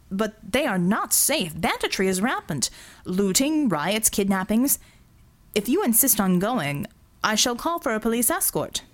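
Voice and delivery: a hint of a nervous businessman pleading; lightly voiced anxious Singh. Singh warning Verdigris the slums are unsafe, nervous.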